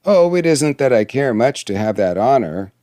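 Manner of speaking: mildly cross, understated huff; angry dwarf. Acted. Dwarf answers the princess's refusal, mildly angry. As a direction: brush it off with a touch of anger. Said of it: "cried the dwarf angrily".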